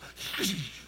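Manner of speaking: hissing zap, then laughing; mouth-made lightning crack with a laugh; imitated lightning strike. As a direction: mimic a lightning bolt crackle, then chuckle. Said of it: "A lightning bolt".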